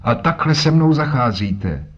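put-on old man complaining at being held; indignant old man. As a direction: protest like a wronged old sailor. Old man protests, caught.

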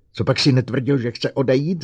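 loud furious roar at the robot. Acted. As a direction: bellow the accusation. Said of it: "zařval Bogert".

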